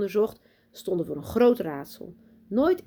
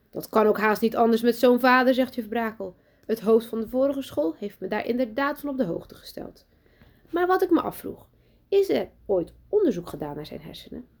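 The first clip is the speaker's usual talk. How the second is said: a hint of a sweet schoolmistress, higher; lightly voiced sugary teacher; 5 semitones higher, 4 dB louder than usual. Teacher greeting new pupil Lucas, overly sweet. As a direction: greet the boy with put-on cheer.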